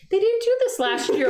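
high-pitched voice lightly mimicking mom; imitated mom.

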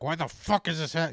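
exasperated, hit the swear hard; getting mad. Retold or imitated. Retelling anger at own body, loud and mad. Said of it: "start getting mad at my own head".

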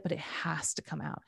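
hushed whisper, no voice at all. Real, not acted. A whispered aside to the listener about letting anger out. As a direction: breathe it out as a secret.

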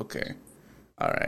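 very soft, barely audible agreement; hushed, acquiescent reply; retold meek compliance. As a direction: give in under your breath. His cowed reply after being hushed.

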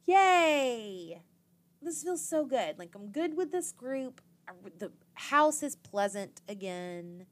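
high, loud, gushing delight; bubbly mock cheer, then slowing down; giddy happy girls. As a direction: gush like a relieved contestant.

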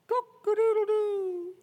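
high, stretched rooster crow; long high cock-a-doodle-doo. Retold or imitated. Rooster crows at sunrise.

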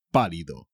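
"pálido" stressed on the opening PA; "pálido" with the accent on the A; stress on first syllable. Shown as a demonstration. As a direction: hit the á in "pálido", then let it fall. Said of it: "Tiene un acento en la A".

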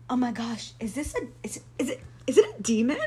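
fast, rising panicky questions; playfully frightened stammer; mock scared. Spotting the owl while praying, mock panic. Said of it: "I was so scared by the owl".

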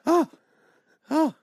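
put-on high, loud Quebec accent; French Canadian accent. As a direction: play a famous singer with flair. Impersonates a singer.

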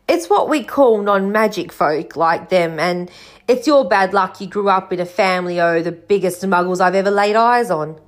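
lightly voiced rustic storybook figure; a touch of folksy, dropped-ending speech; Hagrid. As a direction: explain it plainly in a countryman's voice.

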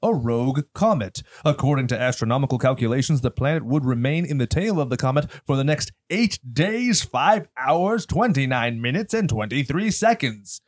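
scripted podcast cold open read; announcer intro. Acted. Host reads the horror podcast's opening to listeners, announcer style. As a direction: deliver it like a dramatic show announcer.

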